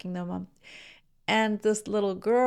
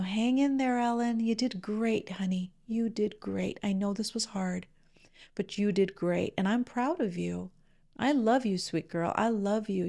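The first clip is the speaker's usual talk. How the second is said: gentle, sweet reassurance; tender grandma soothing; soft loving tone. Retold or imitated. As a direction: coax a screaming child calmly. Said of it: "the same sweet words in that soft, loving tone".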